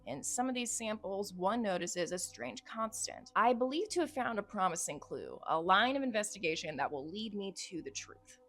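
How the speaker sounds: measured dramatic journal reading; story narration. Acted. Reading the case journal to viewers, dramatic narration. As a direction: narrate the investigation like a case file.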